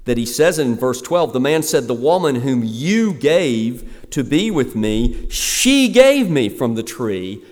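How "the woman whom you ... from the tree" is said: slow, louder blaming; Adam pinning it on God, slow and emphatic; emphatic blame. Acted. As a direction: lean hard on each word of the excuse. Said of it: "this is emphatic in the way that he".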